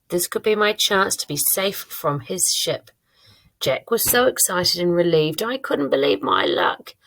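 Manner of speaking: lively, expressive reading of own diary; story read-aloud. Shown as a demonstration. Teacher reading own diary writing to the class, lively read-aloud. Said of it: "I'm going to read it to you now".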